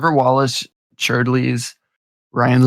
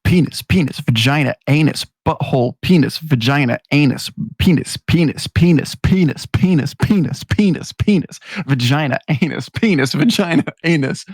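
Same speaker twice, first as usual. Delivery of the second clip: teacher reciting; 2 semitones higher than usual. Retold or imitated. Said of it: "Stares at the kid and goes".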